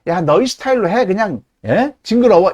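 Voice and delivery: teasing, wrinkled-nose disgust; mock disgust. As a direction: imitate a squeamish scold. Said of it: "이런 식으로 얘기한다는 거죠". (질색하는 흉내)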